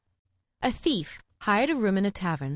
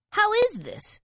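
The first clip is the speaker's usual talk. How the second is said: surprised; 12 semitones higher than usual. A narrator's reading. Hedgehog asks in surprise.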